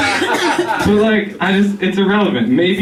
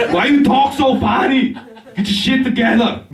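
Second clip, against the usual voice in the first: much higher, laughing Arnold voice; Schwarzenegger impression; 8 semitones higher than usual. Arnold as speech therapist scolding a patient, high and laughing.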